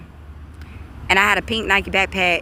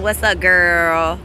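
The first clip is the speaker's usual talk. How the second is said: sarcastic greeting; much slower than usual. Real, not acted. Mock greeting to a watching rival.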